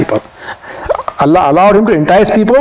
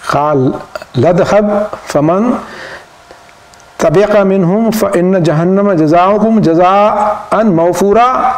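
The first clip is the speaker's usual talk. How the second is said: scripture quoted in measured recitation; reciting a Quranic verse from the pulpit; faster than usual. Acted. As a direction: recite the Arabic verse in a steady run.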